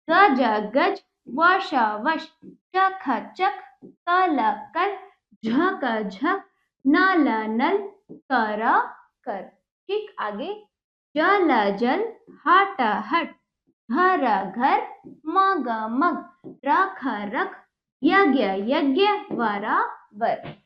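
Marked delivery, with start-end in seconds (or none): 0.1-9.4 slow, drawn-out syllables, then the joined word; sing-song sound-it-out chant for pupils; reading drill. Shown as a demonstration. 11.2-20.5 slow, drawn-out syllables, then the joined word; sing-song sound-it-out chant for pupils; reading drill. Shown as a demonstration.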